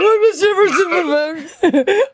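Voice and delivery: bright burst of laughter; high laugh. Real, not acted. Caller's odd voice sets off laugh.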